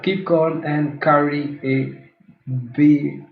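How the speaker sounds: slow, put-on British accent; drawn-out imitation British accent; mock British accent. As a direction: mimic someone trying too hard at British. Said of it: "trying that British accent".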